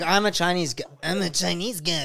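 mock Chinese accent with a French lilt; joking, badly faked Chinese-French accent; Chinese accent done French. Shown as a demonstration. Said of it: "do a Chinese accent but do it French".

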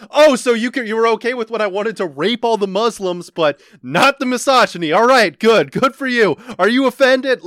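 high, loud mock-indignant rant; hammed-up yelling at a crowd; imitated yelling. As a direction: imitate a stand-up comic berating the audience. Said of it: "where he's yelling like".

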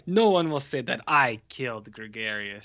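Christo's line in a lightly put-on heavy accent; a hint of a thick foreign accent, menacing; wrestler's dialogue in a light mock accent. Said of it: "I'm doing this accent for everyone".

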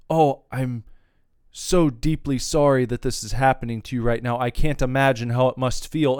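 mocking a support agent's hollow, overdone apology; a hint of a syrupy customer-service apology; fake sympathy. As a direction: lightly lay on fake sorrow like a scripted agent. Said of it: "another fake sentiment".

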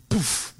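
puffed "poof" for a booted ball; a quick burst of air like a kick; imitated kick sound. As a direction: mimic the ball being whacked away.

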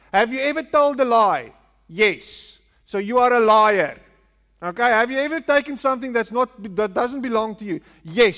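pushy evangelist grilling a stranger, lightly voiced; mock street evangelist. Preacher mimicking street evangelists interrogating passers-by, mildly pushy. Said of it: "that's how we convert people as well".

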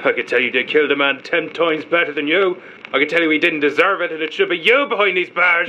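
angry accusation, pitch climbing as it builds; heated and accusing, building in pitch; emotional outburst. Acted. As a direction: lash out at your interrogator, rising to the end. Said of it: "You're gonna control your emotions".

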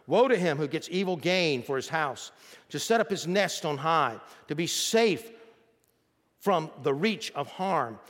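measured, emphatic scripture reading. Acted. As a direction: read the verse out to the congregation with weight. Reads scripture aloud.

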